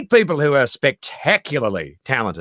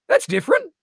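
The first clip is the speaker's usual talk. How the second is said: deadpan verdict. Retold or imitated. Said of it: "And he goes".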